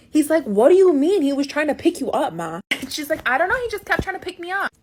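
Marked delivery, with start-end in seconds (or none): 0.4-2.6 loud, higher, exasperated demand; increasingly angry brother. Retold or imitated. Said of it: "my brother's getting increasingly angry". 3.3-4.7 high, fast defensive protest; flustered mom. Retold or imitated. Flustered mom answering angry son.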